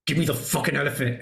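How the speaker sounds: fast, tense retold demand; menacing demand. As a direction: press it out quickly, barely holding the anger in. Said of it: "He's like".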